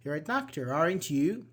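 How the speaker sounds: "doctor" falls, then "aren't you" rises; rising tag intonation. Shown as a demonstration. Teacher demonstrating a question to students, "you" rising in "aren't you". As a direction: end "aren't you" with "you" going up. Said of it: "the U is like rising".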